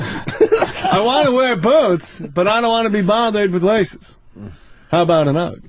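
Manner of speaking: Seinfeld impression. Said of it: "What's the deal with white women?".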